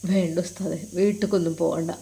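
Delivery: soft, low, downcast reply; low and dejected; subdued refusal. Acted. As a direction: decline quietly, with a heavy heart. Troubled student declines to go home.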